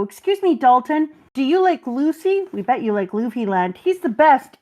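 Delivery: put-on a light child voice, mostly the speaker's own; little kids. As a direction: play the sweet little kids teasing Dalton. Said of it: "my sweet, sweet little kids are there".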